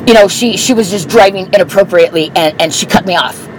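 imitating a flustered man explaining himself; halting, mildly startled excuse; retold startled backpedal. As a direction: stumble through a hasty justification, lightly acted. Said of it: "The guy looked super startled".

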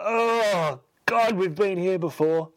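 high, exasperated oh God; exasperated groan. Real, not acted. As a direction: throw up your hands at the plot. Exasperated at yet more peril.

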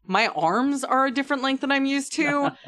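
voicing a bewildered Peleus. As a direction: voice someone lost in a strange body. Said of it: "and you're like".

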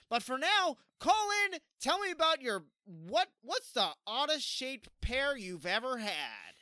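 high, loud radio call-in host. Pretend. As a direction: hype up the call-in like a DJ. Mock DJ asking callers.

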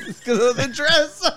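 laughing. Real, not acted. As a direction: crack up while repeating it. Laughing repeat of a joke.

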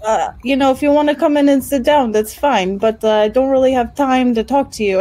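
lightly voiced rat folk investigator; 살짝 높인 쥐인간 탐정 목소리; Vicket Longtail. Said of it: "I just went into".

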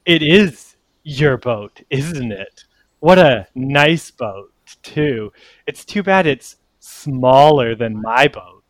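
slow, measured needling; mushroom rival. Acted. Portobello sizes up Jisan's boat, slow and needling. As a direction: draw out each phrase as a petty rival. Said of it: "he goes".

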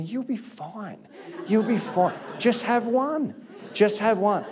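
coaxing inner voice, starting very soft; tempting inner voice. Retold or imitated. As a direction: lightly imitate temptation coaxing you. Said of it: "this inner voice that says to me".

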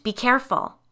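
panicked scream of warning. A narrator's reading. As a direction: shout the warning in alarm. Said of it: "she screamed".

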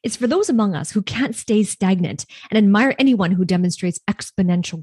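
polished, emphatic announcer read; scripted podcast intro. Acted. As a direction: deliver it like a rehearsed show opener.

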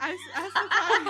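real laughter breaking up the words; talking through laughter. Real, not acted. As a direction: try to resume narrating while cracking up. GM laughing while resuming narration.

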